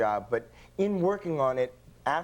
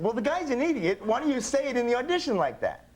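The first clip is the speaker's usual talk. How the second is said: mock wife voice; 9 semitones higher than usual. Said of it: "My wife said".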